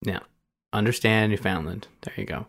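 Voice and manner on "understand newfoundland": "Newfoundland" rhymed with "understand"; careful pronunciation. Shown as a demonstration. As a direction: end "Newfoundland" just like "understand". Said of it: "might even still be mispronouncing it".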